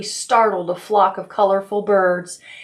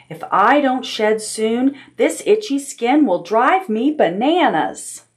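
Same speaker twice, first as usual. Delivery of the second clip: a fretful higher whine; whiny, higher; 4 semitones higher than usual. Acted. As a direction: whine about the itchy skin. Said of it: "whined Aunt Aggie".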